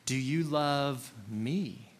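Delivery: slow question, ME swelling up and falling at the end; stress on ME. Shown as a demonstration. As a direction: save the weight for a drawn-out ME. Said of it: "emphasize different words".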